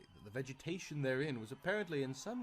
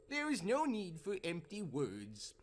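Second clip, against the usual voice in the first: put-on slow, higher, eerie old crone voice; strange cackling crone; 8 semitones higher than usual. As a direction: cackle it out like the devil's grandma. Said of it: "she cackled in a strange voice".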